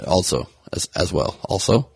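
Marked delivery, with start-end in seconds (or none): 1.5-1.9 slight lisp on the s; lispy. Real, not acted. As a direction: let the s slip into a lisp. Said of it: "little lispy on the first also there".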